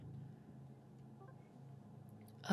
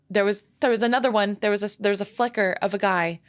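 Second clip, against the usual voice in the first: excited; 2 semitones higher, 5 dB louder, faster than usual. Real, not acted. Frightened gamer sees figure.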